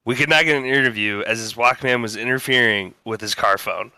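steady newscaster delivery; news anchor read. Acted. Reads a mock news story.

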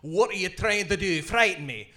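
lightly put-on Scottish accent; Scottish reset phrase, mildly done. Shown as a demonstration. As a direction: recite it in a Scottish burr. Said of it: "I have to speak Scottish".

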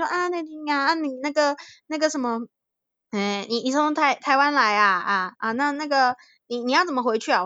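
put-on hesitant elder with a Taiwanese accent; Taiwanese-accented Mandarin. Elder relative asking how she gets home, in a Taiwanese accent. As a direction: mimic the uncle's Taiwanese-accented, halting Mandarin. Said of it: "那个讲台语那个腔调".

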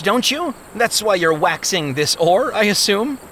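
a keen traveler angling for a ride; eager young traveler. Acted. Ignorance pleads, eager traveler.

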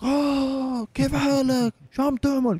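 a foreigner showing off his Lebanese Arabic; the Mexican surprising the Saudi with Lebanese dialect; Mexican speaking Levantine. Retold or imitated. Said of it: "قال لي".

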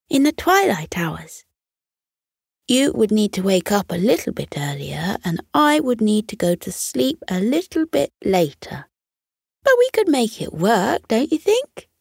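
a fox voice, rising with hope; hopeful fox. Acted. Fox persuading the squirrel to meet at twilight. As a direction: build it to a hopeful question. Blaze proposes plan.

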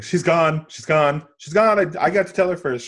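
high, loud, hammed-up eagerness; mock eager blurting. Podcaster mocks Beth rushing to tell Sarah, mock eager blurting. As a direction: blurt it over and over, racing to be first.

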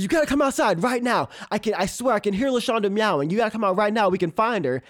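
high, eager call to hurry; imitating her friend's breathless excitement; urgent excited friend. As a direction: pitch it up with urgency. Friend urgently calls her outside.

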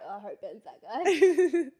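excited. Real, not acted. Excited wish about match.

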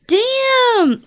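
high, sharp burst of surprise; surprised. Real, not acted. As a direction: blurt it out, amazed. Surprised exclamation.

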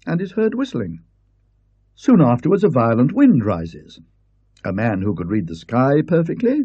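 high, lecturing professor; a don explaining his theory; Parkins. Acted. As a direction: Parkins lecturing the Colonel about wind.

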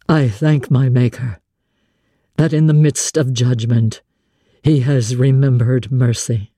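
a grave man praying humbly; a hint of a blind man praying; lightly voiced prayer. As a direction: murmur a humble prayer of thanks. Rochester's prayer of thanks.

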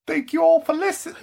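very high laughing witchy thanks; witch voice. Pretend. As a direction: cackle the thanks. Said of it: "witch voice".

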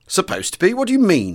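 sharply demanding, pitch jumping high. A narrator's reading. Air vice marshal demands what the officer means, sharply rising. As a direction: press him hard for an answer, rising high. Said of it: "he demanded".

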